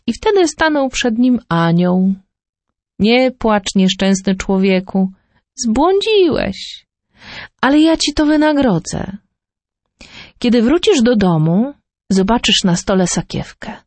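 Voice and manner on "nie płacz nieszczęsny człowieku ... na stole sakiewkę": gentle angel. Acted. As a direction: speak as a kindly angel consoling the man. Angel speaks to Fortunato.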